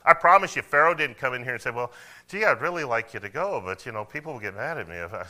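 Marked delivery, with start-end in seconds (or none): 1.7-5.2 mock timid, hesitant pleading; wishy-washy. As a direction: play a meek, apologetic ruler. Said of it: "do you think Pharaoh talked like that?".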